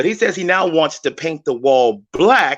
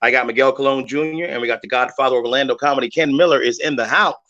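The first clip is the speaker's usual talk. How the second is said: radio host welcome. Acted. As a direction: welcome listeners back on air. Radio host opening segment.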